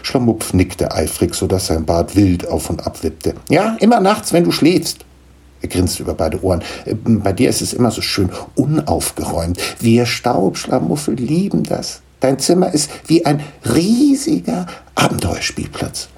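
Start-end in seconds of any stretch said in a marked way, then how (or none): 3.5-5.1 eager. Acted. Gnome eagerly answers the boy. 6.9-16.1 slightly higher, lively gnome voice; a touch of a proud little gnome; lightly voiced gnome father. Gnome introducing his children to Niklas, lightly voiced.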